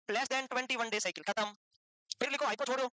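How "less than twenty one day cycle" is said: measured, word-by-word dictation; slow dictation. Real, not acted. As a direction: dictate slowly for note-takers. Teacher dictates for students to write. (लिखवाने के लिए धीरे-धीरे बोलना)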